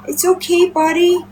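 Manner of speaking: high, sweet reassurance; soothing pet talk. Real, not acted. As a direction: comfort a little animal in a lifted voice. Comforting the complaining pet.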